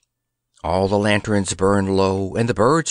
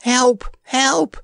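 agonized cry for help; 14 semitones higher than usual. Acted. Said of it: "in an agonized voice".

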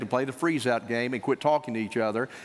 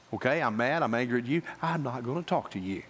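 sulky spouse; 4 semitones lower, 4 dB quieter than usual. Retold or imitated. Voicing the freeze-out spouse.

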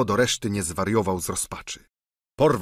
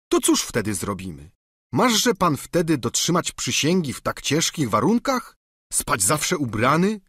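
lightly higher, eager peasant servant; a hint of a simple, chatty squire; Sancho's voice; 6 semitones higher than usual. A narrator's reading. Sługa Sancho tłumaczy się panu, lekko wyżej i gorliwie.

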